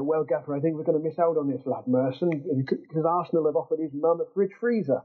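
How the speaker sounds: put-on light, jokey North Wales accent; a deliberately terrible North Wales accent, laughing at the end; Tom Whalley North Wales accent. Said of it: "if I can be permitted to do a terrible North Wales accent".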